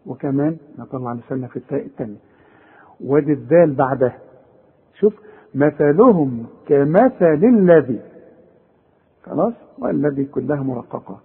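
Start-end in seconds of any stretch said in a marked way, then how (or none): 5.5-8.0 slow recitation with a clear interdental ث and ذ; tongue out on ث. Shown as a demonstration. Teacher shows the verse slowly, tongue-tip ث and ذ. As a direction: recite مثلهم كمثل الذي slowly, tongue between teeth. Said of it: "هنطلع لساننا هنا".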